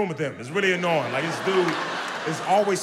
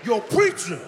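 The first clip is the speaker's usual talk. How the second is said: brother calling out; 9 semitones higher than usual. Retold or imitated.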